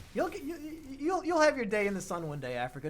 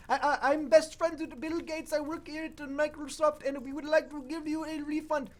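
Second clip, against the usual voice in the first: put-on higher Indian-accented scam caller; mock Indian accent; 8 semitones higher than usual. Imitating a Microsoft scam caller with an Indian accent. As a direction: sell a fake refund in an Indian accent. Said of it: "very thick Indian accent".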